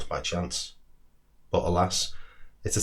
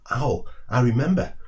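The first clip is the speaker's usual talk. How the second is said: higher, louder burst of excitement; excited squirrel; 5 semitones higher, 4 dB louder than usual. Acted. Squirrel remembering where it found the nut, excited cry. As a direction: squeal out the sudden memory. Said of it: "its voice filled with excitement".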